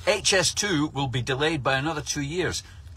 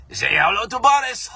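mock farewell; 6 semitones higher, 5 dB louder than usual. Cheery mock send-off.

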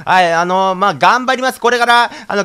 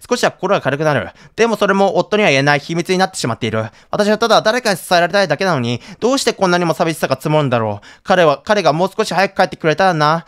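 diary reading. Acted. Reads diary entry aloud.

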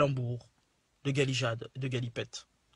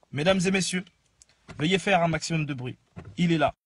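grand entrance announcement. Acted. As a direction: build the hype like a showman. Introducing a guest to the audience.

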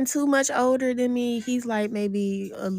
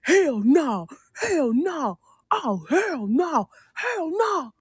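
drawn-out disbelieving refrain, rising at the end; imitating a man muttering hell no over and over; repeated hell no; 5 semitones higher, much slower than usual. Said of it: "He just went".

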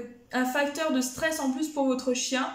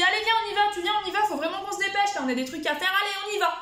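convinced, not angry; 6 semitones higher, faster than usual. Shown as a demonstration. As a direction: sound certain you are leaving now. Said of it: "je suis convaincue sans être énervée".

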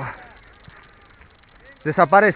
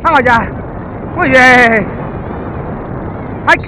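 squeaky praising a dog; 7 semitones higher than usual. Real, not acted. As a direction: cheer the dog on, high and bright. Cheering on a running dog.

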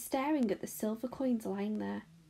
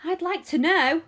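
put-on high, loud indignant boy; resentful, raised-voice outburst; angry shout; 6 semitones higher, 6 dB louder than usual. A narrator's reading. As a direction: demand it crossly, getting louder. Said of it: "a large boy shouted angrily".

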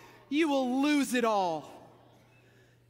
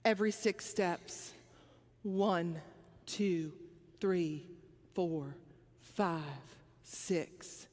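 low, soft reverent count; hushed counting; 11 semitones lower, 8 dB quieter, slower than usual. Retold or imitated. David counting steps before the ark, low and hushed. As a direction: count each step in awe.

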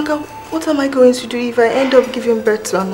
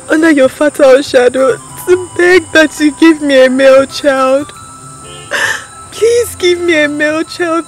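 loud desperate pleading; 5 dB louder than usual. Acted. Queen begging the goddess.

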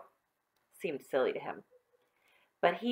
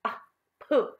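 dismissive; 7 semitones higher, 4 dB louder than usual. Acted. Susan dismisses John's story.

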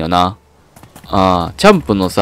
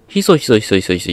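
voiced "hiso-hiso" muttering at usual pitch; mock secret whispering. Shopkeeper sharing a recipe in the boy's ear, mock whispering. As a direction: imitate whispering by repeating the word for it. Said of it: "ちょっと耳かしな".

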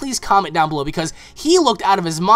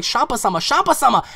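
urgent calling out; 5 semitones higher than usual. Retold or imitated. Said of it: "she's like".

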